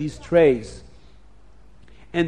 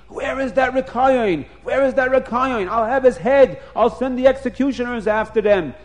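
high, raised angry voice; screaming king; 6 semitones higher, 4 dB louder than usual. A narrator's reading. King sends executioners after Rekayon, angry shouting. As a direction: rant and shout orders like a furious storybook king. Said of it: "the king starts screaming".

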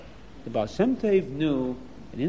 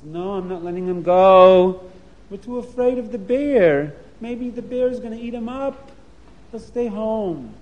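higher, firm motherly voice; protective mother; 3 semitones higher, 4 dB louder than usual. Acted. Mother refusing the rebbe, protective and firm. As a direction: refuse to let him go.

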